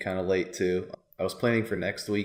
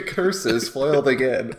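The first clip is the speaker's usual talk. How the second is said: mustache twirling villain; 3 semitones higher, 3 dB louder, slower than usual. Pretend. Villain line repeated laughing.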